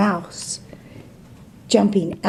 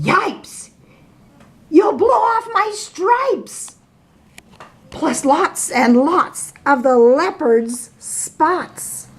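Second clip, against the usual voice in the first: zebra yelping; 6 semitones higher, slower than usual. Acted. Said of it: "The zebra yelled".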